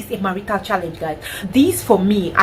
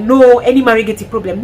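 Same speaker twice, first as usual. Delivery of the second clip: mock adviser; 6 dB louder than usual. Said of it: "and then I'm like".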